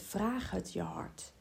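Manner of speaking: "Vraag het je hart" said slowly and softly; slow down and soften on "Vraag het je hart"; gentle advice. Shown as a demonstration. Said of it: "En ik zeg dan ook altijd". (zacht en langzaam, "Vraag het je hart")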